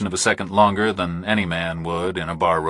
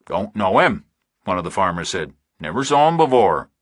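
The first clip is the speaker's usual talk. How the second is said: lightly voiced farmer. Narrator voices a rural farmer.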